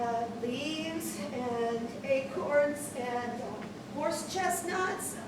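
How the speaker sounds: soft, slow comforting voice; reassuring. Acted. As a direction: soothe a worried child gently. Mother soothes child on phone.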